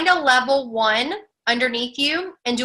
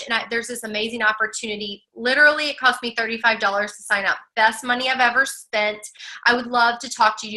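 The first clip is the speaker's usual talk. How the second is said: confident. Shown as a demonstration. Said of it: "Okay, so I'm confident".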